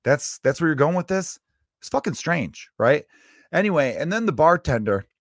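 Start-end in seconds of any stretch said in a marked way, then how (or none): 0.0-3.0 exasperated retort. Retold or imitated. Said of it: "I'm like".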